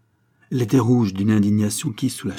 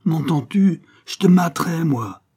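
angry scolding; 6 semitones higher, 6 dB louder than usual. A narrator's reading. Father scolds son, twisting ear.

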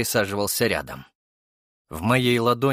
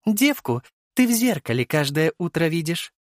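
high female character voice, mocking; high, sneering comeback; smirking retort; 8 semitones higher than usual. A narrator's reading. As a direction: jab back with a smirk. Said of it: "усмехнулась Венера".

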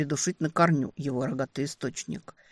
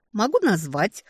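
curt; 5 semitones higher, 4 dB louder than usual. A narrator's reading. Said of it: "отрывисто ответила я".

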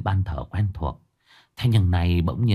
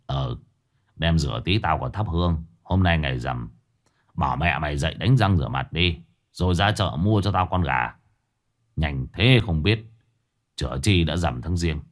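gruff father; 4 semitones lower than usual. Acted. Father answers son gruffly.

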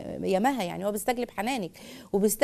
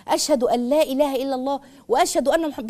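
new Muslim reciting; 3 semitones higher, 4 dB louder than usual. Retold or imitated. Host imitating a new Muslim's shahada, louder and moved. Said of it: "لما بينطق المسلم الجديد".

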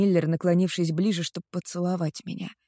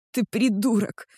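higher, louder furious accusation; growled outburst; 4 semitones higher, 4 dB louder than usual. Acted. Girl accusing the boyfriend she saw with another, loud snarling fury. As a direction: snarl it at him, sure of what she saw. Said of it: "рычу я".

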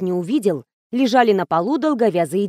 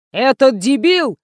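drawn-out, exasperated outburst; slow, indignant cry of fury; angry yell; 3 semitones higher, 3 dB louder, slower than usual. A narrator's reading. Director Nikolai raging about his adman, drawn-out angry yell. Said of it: "завопил Николай".

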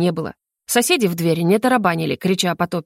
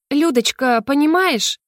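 fawning mother; 6 semitones higher, slower than usual. Acted. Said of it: "заискивающий голос мамы".

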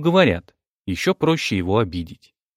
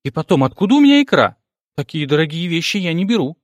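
higher, louder, fast protest; indignant exclamation; 5 semitones higher, 3 dB louder, faster than usual. A narrator's reading. Vera protesting to Vanya on the phone, quick and indignant. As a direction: fire back in quick indignation. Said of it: "воскликнула Вера".

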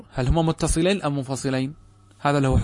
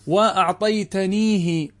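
وأعطيتنيه drawn out syllable by syllable, raised; slow syllabified example; 6 semitones higher, 3 dB louder, much slower than usual. Shown as a demonstration. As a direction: spell out وأعطيتنيه slowly. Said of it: "انظر إلى ال". (نطق بطيء مقطعًا مقطعًا)

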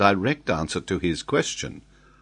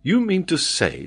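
higher-pitched doubtful query; incredulous; 12 semitones higher, 3 dB louder than usual. Acted. Glenarvan doubts the geographer's claim, incredulous. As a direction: question it in disbelief, without raising volume.

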